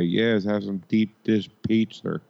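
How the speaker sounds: lightly put-on Chicago accent; mock Chicago accent. Ribbing Chicago locals, a mild mock Chicago accent. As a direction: imitate a Chicago local ordering food. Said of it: "how they say".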